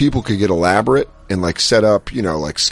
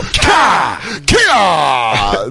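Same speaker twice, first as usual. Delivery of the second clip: mock karate yell; 4 semitones higher than usual. Mock karate yell kicking scarecrows.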